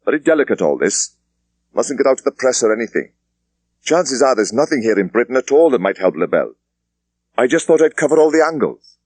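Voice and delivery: a superintendent dismissing his junior; police superintendent. Acted. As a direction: wrap it up with brisk authority. Thomas explains.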